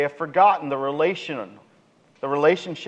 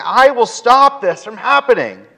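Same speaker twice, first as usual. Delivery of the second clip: raised, forceful preacher voicing God; emphatic divine promise; 7 semitones higher, 7 dB louder than usual. God promising to stop the destroyer, emphatic and loud. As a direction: declare it high and loud, with authority.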